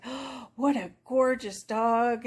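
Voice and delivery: a slow, lightly acted gasp of awe; imitated admiration. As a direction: mimic an impressed stranger, drawing the words out. Stranger admiring the dog, acted.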